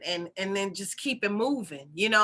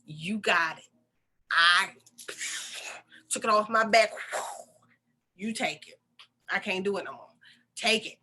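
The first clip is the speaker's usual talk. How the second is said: pleading prayer. Retold or imitated. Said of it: "talking to God and saying".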